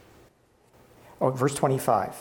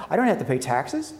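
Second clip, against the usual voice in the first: mock surprise. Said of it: "this is the part where you go".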